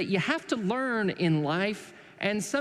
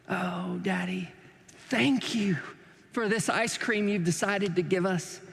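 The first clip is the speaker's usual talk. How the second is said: mock British accent; 5 semitones higher than usual. Children thanking Daddy for ice cream, mock British accent. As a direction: lay on a prim British accent. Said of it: "just not in a British accent".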